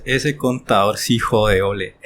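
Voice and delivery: slow, low imitation of a fed-up client; mock grumbling. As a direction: grumble it slowly, dragging the words. Acts out clients grumbling about accountant.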